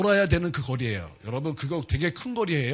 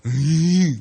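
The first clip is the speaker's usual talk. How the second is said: exasperated groan; 5 dB louder, much slower than usual. Shown as a demonstration. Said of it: "저는 막 볼 때마다".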